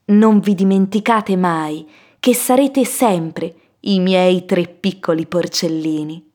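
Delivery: slow, lightly voiced tender mother; see the children off, unhurried; a hint of motherly tenderness; mother's farewell.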